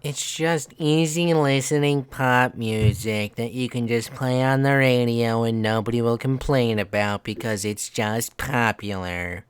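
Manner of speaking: slow, wry comedian drawl; slow, dry, unimpressed comic delivery; George Carlin impression. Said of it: "That is George Carlin when he's talking".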